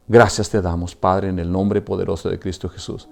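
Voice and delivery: guided prayer. Acted. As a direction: lead them gently in prayer. Leads a prayer of repentance. (oración guiada, suave y grave)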